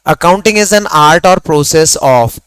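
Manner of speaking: drawn out word by word; teacher dictating the definition of accounting; slow dictation. Shown as a demonstration. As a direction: let each word land for the note-takers. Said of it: "दोनों शब्द लिख रहा हूं".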